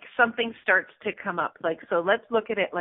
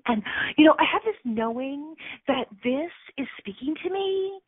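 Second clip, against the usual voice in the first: dreamy gushing; 3 semitones higher than usual. Retold or imitated. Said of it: "We dress it up like".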